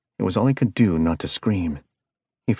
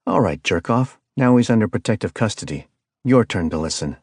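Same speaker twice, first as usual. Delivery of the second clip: a firm, louder jab at the caller; angry retort; 2 semitones higher, 4 dB louder than usual. Acted. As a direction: push back hard at the phone. Reed snaps at the caller.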